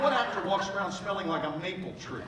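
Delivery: ordinary talk, nothing marked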